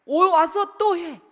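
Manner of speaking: slow, loud, high exhortation; preacher urging parents loudly; emphatic shout. Real, not acted. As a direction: pound each word.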